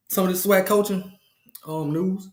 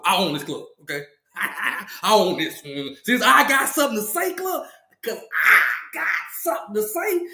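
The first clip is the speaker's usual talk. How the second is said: a brash club owner hyping up the crowd, pitched up; hyped club host; 3 semitones higher than usual. Acted. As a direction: play the boastful host welcoming everyone in. Hyped club owner hosting party.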